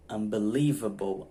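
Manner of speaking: "Unbelievable" slowly, stressed on "lie"; early English stress. Shown as a demonstration. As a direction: stretch the "lie" in "Unbelievable", then let "able" drop. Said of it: "ela vem antes".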